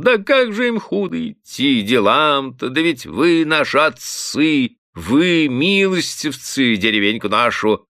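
high, slow gushing cry; tipsy bailiff gushing at his master, high and drawn out; exclaiming fawningly. A narrator's reading. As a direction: gush over the master. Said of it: "запел пуще прежнего".

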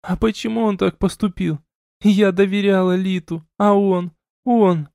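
a hint of broken reproach; hurt young woman. A narrator's reading. Elina crying, questioning.

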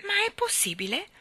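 molto più acuta, incredula; incredula, quasi senza fiato per lo stupore; sbalordita. A narrator's reading. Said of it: "Ella lo guardò sbalordita". (Jane sbalordita chiede all'uomo, voce acuta e incredula)

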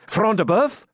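high, rising astonishment; exclaimed question. A narrator's reading. Knight checks who has fallen, exclaiming. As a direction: ask it in eager surprise. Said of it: "exclaimed Ivanhoe".

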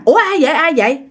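high, anxious repeated question; asking fearfully who is there; startled plea; scared question. Retold or imitated. Frightened question in the dark.

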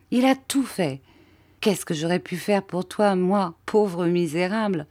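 grateful and hopeful about Bob; lightly voiced Mathia. Mathia explains the escape plan.

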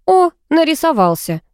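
pleased. A narrator's reading. Girl greets the returning poodle, pleased and lively. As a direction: glad the dog turned up. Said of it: "обрадовалась я".

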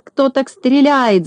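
"Кто так стреляет?" cried up high in exasperation. A narrator's reading. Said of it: "закричал с раздражением".

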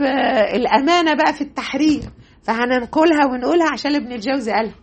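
amused, with a light laugh in the words; light laugh while explaining; chuckling. Real, not acted. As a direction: say it through a small chuckle. Admits awkward point, chuckling.

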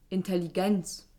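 like a swear word. Acted. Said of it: "Sie sprechen das Wort Intelligenz wie ein Schimpfwort aus".

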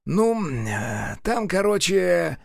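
faltering, slow stammer; hesitant. Acted. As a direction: stall for words. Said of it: "замялся второй". (замявшись)

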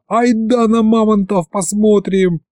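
put-on high excited boy's urging; boy begs grandpa to come see the mammoths; eager shout. A narrator's reading. Eager high call. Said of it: "завопил я".

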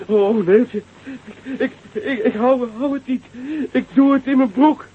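hoog, paniekerig smeken; doodsbang. Acted. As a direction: bang stamelen terwijl de boom schudt. Bange man in schuddende boom. (hoge angstige noodkreet aan Neeltje)

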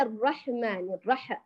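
الرح with a jolted ح; wrong bounced ح. Shown as a demonstration. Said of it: "هذا أكثر خطأ شائع".

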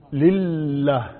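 لله with a long, pressed double L; shadda demonstration. Shown as a demonstration. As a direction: hold the doubled lam in لله. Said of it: "عدوها تشديدات".

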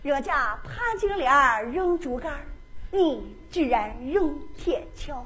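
mild hurt whine; wounded complaint. Acted. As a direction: Ximen Qing holding his head, complaining. Ximen clutching head.

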